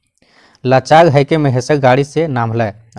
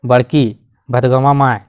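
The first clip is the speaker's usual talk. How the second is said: louder call, slowing on the name; 4 dB louder than usual. Retold or imitated. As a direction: call her name across the yard. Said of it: "Raghu की बीवी को चिल्लाने लगी".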